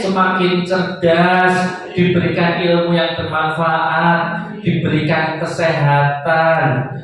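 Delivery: slow, measured blessing for the crowd; host leads parents' prayer, slow and solemn. Acted. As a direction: pace each blessing for the amen.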